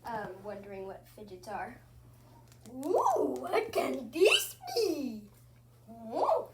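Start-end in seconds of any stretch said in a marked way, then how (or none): 2.7-6.4 put-on curious kid. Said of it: "the kid who is wondering".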